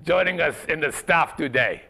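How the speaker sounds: half-hearted fake Russian accent; lightly put-on Russian accent. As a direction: introduce the staff in a mock Russian accent. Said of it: "stop that crap right now".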